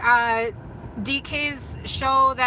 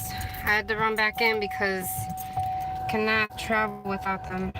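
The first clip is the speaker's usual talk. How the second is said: breathless from running back in; out of breath; 2 semitones lower, 5 dB quieter than usual. Real, not acted. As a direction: talk while catching your breath. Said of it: "Oh, I'm out of breath".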